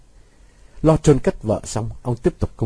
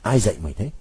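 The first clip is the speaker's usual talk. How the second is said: a hiss through clenched teeth; father hissing in fury; 3 semitones lower, 3 dB quieter, faster than usual. A narrator's reading. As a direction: grind it out between the teeth. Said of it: "Ông nghiến răng rít lên".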